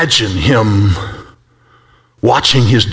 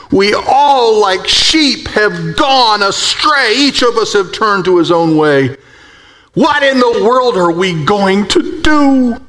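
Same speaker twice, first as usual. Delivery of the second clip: Isaiah's cry; 6 semitones higher, slower than usual. Acted. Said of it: "you hear the scream from Isaiah".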